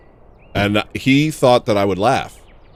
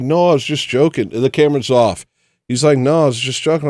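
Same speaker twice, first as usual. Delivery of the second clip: brother protesting; 6 semitones higher, 6 dB louder than usual. Retold or imitated. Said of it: "And he's like".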